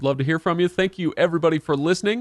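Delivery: smooth radio host sign-off; sexy podcast voice. Acted. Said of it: "Was that your sexy podcast voice?".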